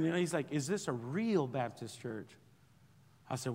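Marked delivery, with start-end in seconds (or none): 0.5-2.3 slow, a touch lower and softer stern question; lightly voiced stern policeman, slow; stern officer. Federal officer questioning the pastor, mildly stern and slow. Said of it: "he's like, very stern".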